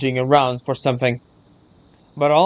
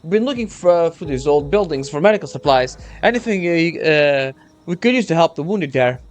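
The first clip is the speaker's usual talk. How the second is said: lightly raised earnest soldier; young soldier voice; 3 semitones higher than usual. Acted. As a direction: explain urgently, a hint of nerves.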